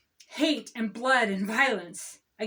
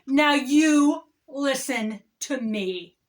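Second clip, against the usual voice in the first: mock David Faber; 5 dB louder, slower than usual. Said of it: "I am transitioning into David Faber".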